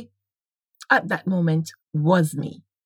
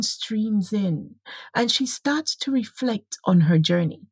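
story narration. A narrator's reading. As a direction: read it like a reflective memoir, pausing often. Reads her story aloud.

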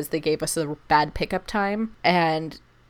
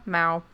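soft meow. Retold or imitated. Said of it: "much louder and much more of them".

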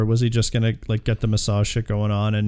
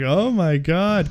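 mock astonishment; 4 semitones higher, much slower than usual. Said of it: "and then they're like".

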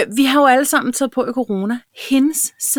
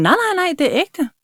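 higher, eager insisting no no no; emphatic reassurance; 5 semitones higher than usual. Retold or imitated. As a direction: insist warmly that it is real. Reassuring colleague her bum is real.

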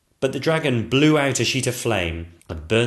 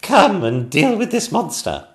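high loud call for help; 9 semitones higher, 10 dB louder than usual. Acted. Queen calling her children to deal with the monster, loud and high. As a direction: summon the children urgently. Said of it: "the Queen called out".

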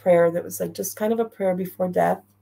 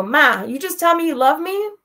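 amazed question; 9 semitones higher, 4 dB louder than usual. Retold or imitated. Retold question to dying mother.

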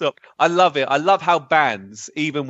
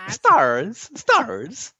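zombie moan; 9 semitones higher, much slower than usual. Retold or imitated. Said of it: "if that was a zombie's voice".

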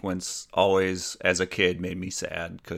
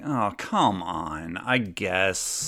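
deflated; much slower than usual. Retold or imitated. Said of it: "sank my head down".

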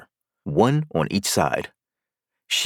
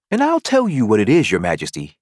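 a touch of mock severity, scolding herself; lightly stern self-scolding; severe tone; 4 dB louder than usual. Alice playing queen, scolding herself in a mild severe tone. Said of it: "she went on in a severe tone".

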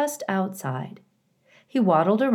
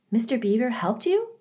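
light, gentle, higher doe voice; 7 semitones higher than usual. Acted. Tawny the doe asking Roz, gentle and lightly voiced. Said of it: "came Tawny's gentle voice".

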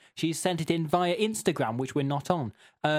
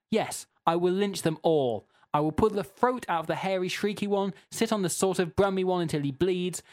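emphatic, mildly raised rant; mock angry reading; 3 semitones higher than usual. Host reading an irate listener's goat rant, mock angry. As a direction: escalate an absurd complaint with mild outrage. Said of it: "the thing that everyone's angry about".

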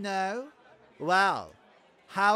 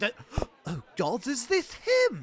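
awed gasp; 3 semitones higher than usual. Acted. Gasping aside at the king's arrival.

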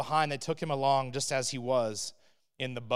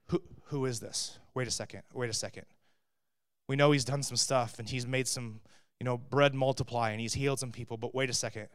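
soft, lower, awed murmur; hushed awe; 4 semitones lower, 5 dB quieter than usual. Acted. Terrified disciples ask who Jesus is, hushed awe. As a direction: breathe it out in stunned wonder.

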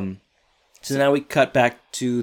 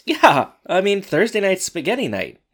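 high goofy voice; 8 semitones higher, 4 dB louder than usual. Retold or imitated. Eric voiced cheerfully.

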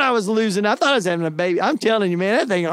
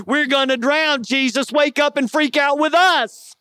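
mock freak-out, only a touch raised; mildly panicked disciples; 2 semitones higher than usual. Disciples waking Jesus in the storm, mild mock panic. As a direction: lightly voice men afraid of drowning. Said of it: "they were freaking out".

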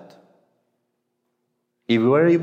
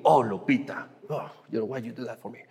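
imitated grumbling; 5 dB quieter than usual. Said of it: "instead of thinking".

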